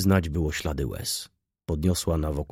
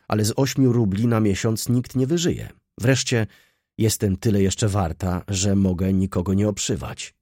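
put-on louder, higher girl's protest; lightly voiced defiant girl; 3 semitones higher, 5 dB louder than usual. Girl refusing sewing work, lightly voiced defiance. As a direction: push back as the girl, mildly defiant.

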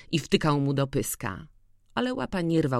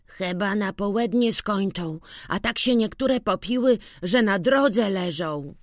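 put-on much higher, louder lively boyish voice; boy telling news; 6 semitones higher, 3 dB louder than usual. A narrator's reading. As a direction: tell the old man what's happening. Witek reports the wedding.

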